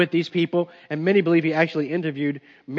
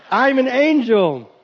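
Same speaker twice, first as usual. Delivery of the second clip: higher, louder, slow hammed-up angel; showy Gabriel; 4 semitones higher, 4 dB louder, slower than usual. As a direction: boast it slowly. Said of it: "what I would have done if I was Gabriel".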